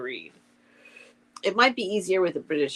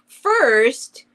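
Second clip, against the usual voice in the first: slow, slightly raised storybook delivery; story read-aloud; 5 semitones higher, 5 dB louder, much slower than usual. A narrator's reading. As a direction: read it out slowly, phrase by phrase. Reads Owl's lines from a story.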